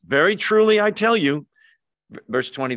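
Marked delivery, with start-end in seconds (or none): 0.1-1.5 higher, louder, weighty announcement; solemn proclamation. Acted. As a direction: declare it like Jesus announcing something vital. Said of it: "Here it comes".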